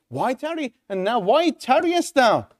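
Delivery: pitched high and pressing; urgent plea. Acted. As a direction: plead with him not to wait, high and urgent. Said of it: "can you hear the urgency?".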